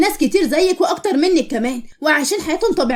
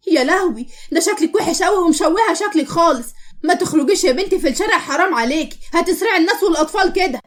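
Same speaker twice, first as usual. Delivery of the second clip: higher-pitched horrified scolding; scornful horror; 4 semitones higher than usual. Acted. Stranger insulting a girl's looks, scornful and appalled. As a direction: shame her like a scandalised stranger.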